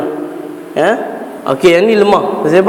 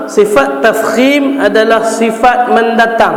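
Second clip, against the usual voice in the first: quoting the author; 3 semitones higher, slower than usual. Shown as a demonstration. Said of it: "Dia kata apa?".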